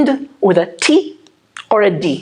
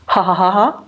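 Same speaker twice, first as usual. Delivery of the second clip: demo laugh. Shown as a demonstration.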